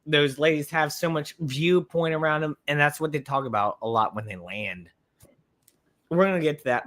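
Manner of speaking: hiccuping mid-sentence; talking with bad hiccups. Real, not acted. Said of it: "My hiccups are insane right now".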